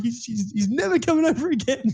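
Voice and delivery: very high mock mum voice, worried; imitating a mum. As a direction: squeak it out like a fussing mum. Friend's mum voiced in story.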